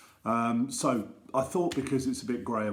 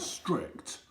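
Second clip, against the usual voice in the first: whispered; 4 semitones higher, 6 dB quieter than usual. Acted. Stressing how strict teachers are.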